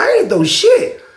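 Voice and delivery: very high, drawn-out denial; mock protest. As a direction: squeal your innocence, stretching it out. Acted denial of the accusation.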